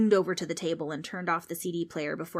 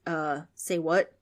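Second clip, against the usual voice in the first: puzzled ghost; 4 dB louder, slower than usual. Acted. Ghost confused.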